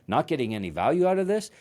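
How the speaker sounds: quick, rising, incredulous imitation of a mentor; arrogant mock disbelief. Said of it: "an arrogant mentor".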